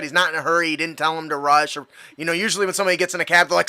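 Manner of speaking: normal talking voice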